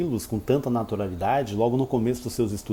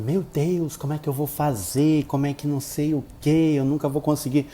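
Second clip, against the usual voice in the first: mock desperate student; 3 semitones higher than usual. Teacher mimicking a panicking student, mildly mocking. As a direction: play the anxious learner lightly. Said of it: "se você estiver desesperado".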